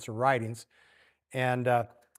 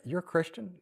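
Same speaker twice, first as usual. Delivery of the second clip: surprised question; 5 semitones higher than usual. Acted. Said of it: "it's kinda like, some of us".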